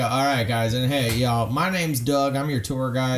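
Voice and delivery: low Southern tour-guide greeting; Southern accent. Shown as a demonstration. Tour guide introducing himself to passengers, Southern accent.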